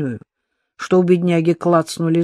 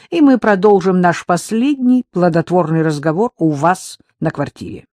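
угрожающе; 4 dB louder than usual. Acted. Рита угрожает Евгению.

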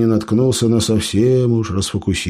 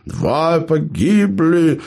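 slow, mock-tragic, higher; tragic announcement; 9 semitones higher, much slower than usual. Gnome announces losses, slow mock-tragic. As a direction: mourn the losses theatrically. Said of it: "трагически объявил карлик-эльф".

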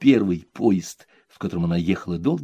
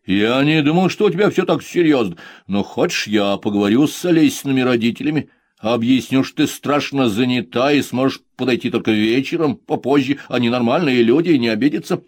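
son, loud, eager to fix things; 4 semitones higher, 5 dB louder than usual. Acted. Son to mother, eager to help. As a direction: offer help earnestly.

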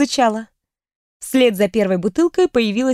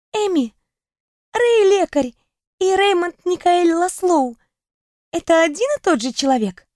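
осторожный вопрос, с паузами; неуверенно выспросить тайну; робкая подруга; 7 semitones higher than usual. Acted. Даяна осторожно спрашивает. (робкий голос подруги)

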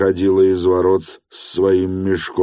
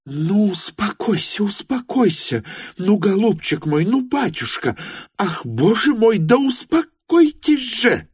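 much higher, frenzied pleading; frantic cry. Acted. Varvara Petrovna frantically begs the weeping Stepan Trofimovich to calm down. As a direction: beg him to calm down, half out of her mind. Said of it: "крикнула она неистово".

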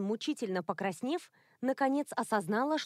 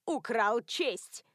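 put-on indignant old woman; much slower than usual. A narrator's reading. Sylvia accusing Ralph.

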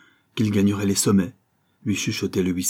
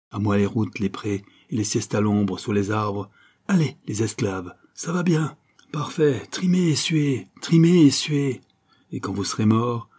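lightly voiced rebel Joey. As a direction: goad the slaves to toil and sweat. Voices rebellious Joey goading workers. (harangue moqueuse, légèrement jouée)

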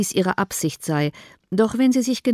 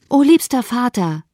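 higher-pitched, urgent appeal; pleading exclamation; 5 semitones higher, 4 dB louder than usual. A narrator's reading. Daughter imploring her dear father, urgent exclamation. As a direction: cry out imploringly, as read in a story. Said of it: "rief sie".

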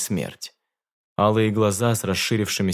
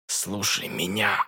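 faint strained gasp; 5 dB quieter, slower than usual. Acted. Франц, throat slit, gurgling.

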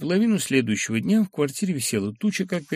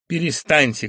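shout; 4 semitones higher, 5 dB louder than usual. Acted. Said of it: "крикнул Филипп Филиппович".

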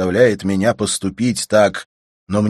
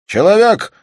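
shouted call for the servant, much higher and louder; 10 dB louder than usual. Acted. Volyntsev shouting for the servant to bring tea, loud call. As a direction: call out loud across the house. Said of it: "крикнул он громко".

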